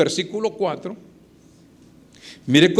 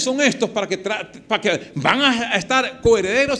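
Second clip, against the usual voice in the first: mock outrage of the chosen people; the Jews objecting to gentile heirs; indignant Jews; 2 semitones higher than usual. Preacher voicing indignant Jews.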